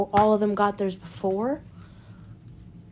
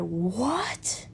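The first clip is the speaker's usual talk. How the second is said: whispered shock; 6 dB quieter than usual. Retold or imitated. Crew shocked at grandpa news.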